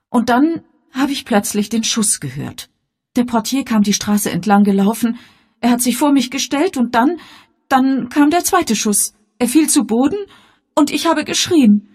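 high, loud, mounting agitation; frightened daughter Elvira. Acted. Daughter telling the inspector of the shooting, agitated and high. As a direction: recount it with pitch climbing towards panic.

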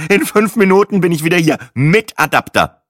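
loud, high parting shot; emphatic huff, slowing hard on the last words; huffy announcement. Acted. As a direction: call it out while storming off. Storming off after cutting in.

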